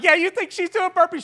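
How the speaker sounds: high, loud mock question; retold incredulous tease; teasing disbelief. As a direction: blurt it high and loud, poking fun. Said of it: "I laughed. I was like".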